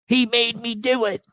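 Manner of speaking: high, drawn-out mocking excuse; mock snitch. Mocking people who tell on others, high mock pleading.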